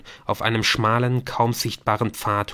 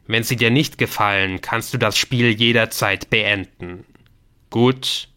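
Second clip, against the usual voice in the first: lightly voiced game master, emphatic and formal; solemn game voice; 4 dB louder than usual. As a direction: announce the rules with slight ceremony. (leicht feierliche Stimme des Spiels)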